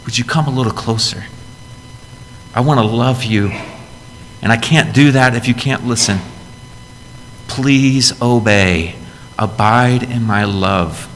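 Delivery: lightly voiced, tender plea; tender God. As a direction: invite them close like a loving father. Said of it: "He's looking at you going".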